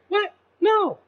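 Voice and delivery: high incredulous yelp. Real, not acted. Reacting to being arrested, high incredulous no. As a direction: leap up in disbelief, then refuse.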